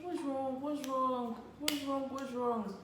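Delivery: repeated high anxious asking; worried asking. Retold or imitated. Girlfriend asking moody boyfriend what's wrong, high. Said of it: "I was like".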